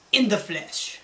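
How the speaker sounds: a hint of a smug villain; lightly voiced evil general. A narrator's reading. Villain general reveals himself to the spies, lightly evil. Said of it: "smiled evilly and says".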